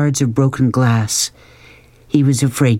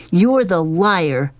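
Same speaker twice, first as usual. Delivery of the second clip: slow, higher-pitched cold accusation; dark, cold voice; 7 semitones higher, slower than usual. A narrator's reading. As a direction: throw it back slowly and coldly. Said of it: "in a dark, cold voice".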